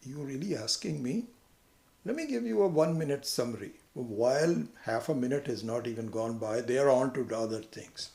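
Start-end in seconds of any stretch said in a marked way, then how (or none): 0.0-3.7 high surprised Really, then quick; mock surprised. Teacher mocks answering a shallow how are you, surprised. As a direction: feign delight at being asked. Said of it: "you say".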